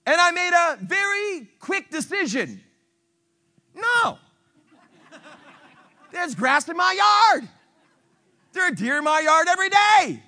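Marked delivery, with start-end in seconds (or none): 3.7-4.2 sharp, high no; emphatic no. Real, not acted. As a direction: slam the door with no. Pastor's firm decision.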